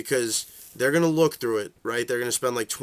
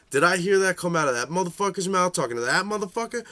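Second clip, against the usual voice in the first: incredulous; 6 semitones higher, faster than usual. Retold or imitated. Incredulous at overheard trade.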